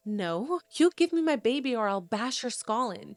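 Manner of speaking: mild mock yell of a threat; retold yell. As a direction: threaten with only a touch of a shout. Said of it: "she yells at Solomon".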